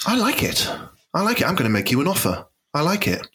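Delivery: measured, put-on investor voice; lightly voiced business bigwig; Langdon Tingley soundalike. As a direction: play a keen investor making a bid. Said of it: "he sounds a bit like that Langdon Tingley".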